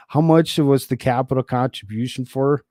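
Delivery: put-on light Minnesota accent voice. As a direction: ask it with Minnesota vowels. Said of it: "give him a straight up Minnesota voice".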